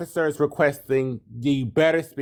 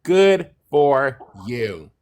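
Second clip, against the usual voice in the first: sarcastic; 4 semitones higher than usual. Acted. Sarcastic praise.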